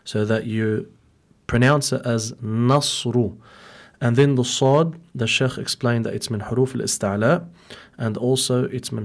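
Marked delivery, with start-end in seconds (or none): 2.3-3.4 "nasru" with a thin, unemphatic n; careful tajweed demo of "nasru", n not thickened; light noon. Shown as a demonstration. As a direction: say "nasru" slowly, keeping the n light before the heavy s. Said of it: "make sure that the noon is muraqqaqa".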